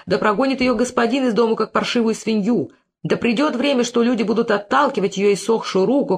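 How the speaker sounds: wailing curse. Acted. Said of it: "стал причитать".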